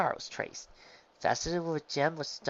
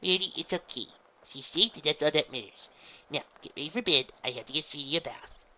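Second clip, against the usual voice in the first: a gently raised motherly voice; calm mother; 4 semitones higher, 6 dB louder than usual. A narrator's reading. Mother calming her daughters after the scare, lightly louder. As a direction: settle everyone down kindly.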